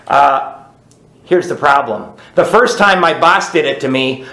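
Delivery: ordinary talk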